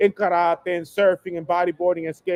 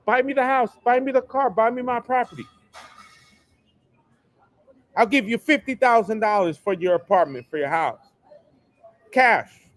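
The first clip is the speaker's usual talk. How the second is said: higher, mocking voice offering cash; mock buyer's pitch; 5 semitones higher than usual. Buyer pushing cash on an owner, in a higher, mocking voice. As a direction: ham up an eager buyer waving cash. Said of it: "They'll come in begging with money".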